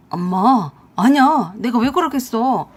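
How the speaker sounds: loud, flustered protest; panicked denial. A narrator's reading. Son caught out by his mother, denying it frantically. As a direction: plead innocence to an angry mother.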